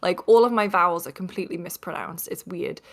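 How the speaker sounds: lightly Northeast England accented speech; real northeast English accent. Shown as a demonstration. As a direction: let the native northeast English vowels through. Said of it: "in my real accent, which is this".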